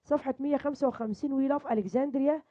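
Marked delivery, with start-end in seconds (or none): 1.3-2.4 We love Alexandria read very slowly, word by word; slow model reading. Shown as a demonstration. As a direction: spell it out slowly for the class. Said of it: "يبقى إحنا عندنا الدرس الأول". (قراءة بطيئة واضحة)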